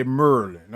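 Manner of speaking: "Maryland" squeezed into two syllables, like "Merlin"; "Maryland" with the middle vowel dropped, MUR-lin; local pronunciation. Shown as a demonstration. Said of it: "Tell me if you say it like that".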